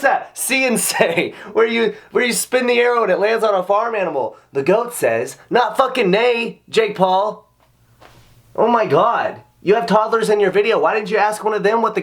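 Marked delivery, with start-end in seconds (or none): 4.5-7.5 "not fucking nay" dragged out slowly and hit hard; stress on not fucking nay. Real, not acted. Mocking a rapper who got the goat sound wrong, exasperated stress. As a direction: spell out that a goat doesn't say "nay". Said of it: "mocking correction".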